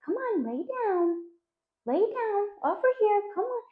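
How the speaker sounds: high, soft pleading owner voice; coaxing, not firm. Acted. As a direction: coax the dog weakly, high and quiet. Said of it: "stop using your bank voice and you start to go like".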